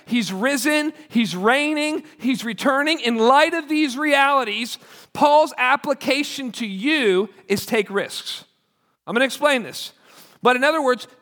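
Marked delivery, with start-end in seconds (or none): 3.0-8.4 slow, weighty delivery of the point; deliberate preaching emphasis; slow emphatic point. Acted. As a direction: lean on every word. Preacher slows for main point.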